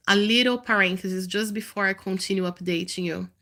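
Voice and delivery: nasal, stuffy voice; nasal from a blocked nose. Real, not acted. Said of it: "it's quite a nasal voice right now".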